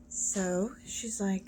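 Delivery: slow hushed whisper; whispered aside. Real, not acted. Storyteller whispering to listeners, a slow aside. Aside while retelling joke.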